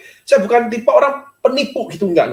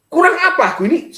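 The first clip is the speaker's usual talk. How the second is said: retold angry complaint; 8 semitones higher than usual. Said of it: "marah saya ini".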